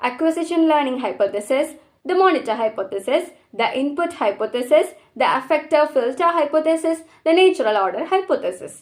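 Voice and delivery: very slow, each term spaced out; slow dictation. Acted. Teacher reading exam terms slowly to students. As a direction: read it out like dictation to a class.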